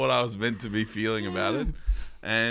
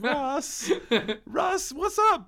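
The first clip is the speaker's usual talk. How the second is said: high excited greeting; much slower than usual. Pretend. Calling out to Russ.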